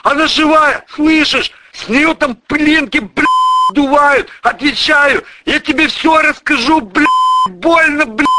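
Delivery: high, loud agonised begging; begging for mercy under torture; screaming in pain. Acted. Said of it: "орал Михеич не своим голосом". (орёт не своим голосом от боли)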